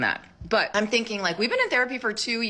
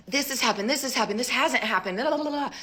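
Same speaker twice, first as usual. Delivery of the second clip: mock rant; 7 semitones higher than usual. Mocking her own venting.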